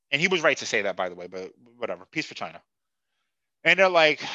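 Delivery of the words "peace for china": low, much softer aside; soft muttered quote. Retold or imitated. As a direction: mutter it under your breath.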